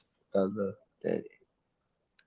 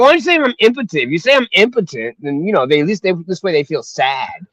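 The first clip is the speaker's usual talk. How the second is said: exasperated pleading; 4 semitones higher, faster than usual. Retold or imitated. Son pleading again, higher.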